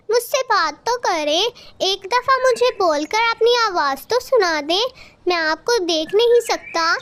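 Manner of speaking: a lightly voiced small child, pleading; lost little boy begging his mother to speak; little child calling for mother. Abandoned baby crow pleading for his mother, lightly voiced.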